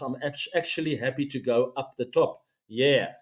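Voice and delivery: put-on light Australian accent on a read-out quote. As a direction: slip into a hint of an Australian accent, casual and laid-back. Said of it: "throwing a bit of Australian accent there".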